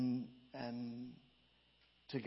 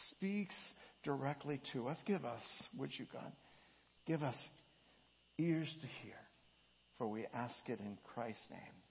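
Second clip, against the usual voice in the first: prayer. Real, not acted. Closing prayer.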